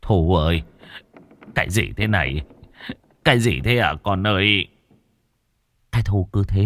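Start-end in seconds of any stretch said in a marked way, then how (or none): 0.0-4.7 a touch of fear. Acted. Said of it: "Ông run rẩy nhìn đứa con gái".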